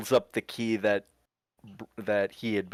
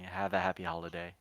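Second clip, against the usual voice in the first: a higher, quicker sing-song send-off; cheerful holiday wish; 10 semitones higher, 6 dB quieter, faster than usual. Acted. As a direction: chirp the holiday wish brightly and fast.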